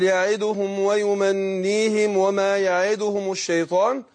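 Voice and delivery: slow deliberate recitation; slow demo reading. Shown as a demonstration. Teacher to student modelling the verse slowly. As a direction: draw the phrase out for the student. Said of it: "يقول".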